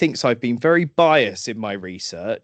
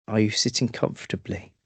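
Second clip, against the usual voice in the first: softer, creepy storyteller's opener; 3 semitones lower, 4 dB quieter than usual. Pretend. Host opening a spooky tale for listeners, creepy. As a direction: ask it softly, with a creepy edge. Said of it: "sounds very creepy the way you say it".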